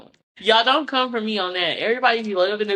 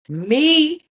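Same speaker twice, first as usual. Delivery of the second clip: playful high me; 9 semitones higher, 5 dB louder than usual. Real, not acted. Owning up playfully.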